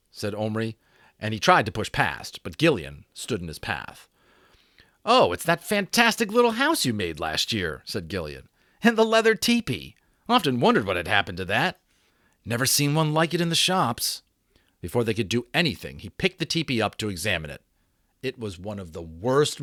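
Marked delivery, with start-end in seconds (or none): 5.0-14.2 put-on older brother voice. A narrator's reading. Gillian admiring the house.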